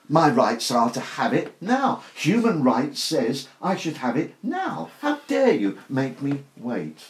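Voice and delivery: mildly hammed-up entitlement, "now" punched; mock arrogance. Preacher voicing the attitude of impatient people, mock arrogance. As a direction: imitate someone arrogantly demanding their rights. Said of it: "The arrogance behind it".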